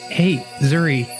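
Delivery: ordinary talk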